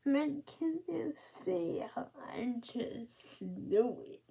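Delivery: real tears breaking in, mostly whispered; fighting back crying on camera; close to tears. Real, not acted. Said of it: "I knew I was gonna cry".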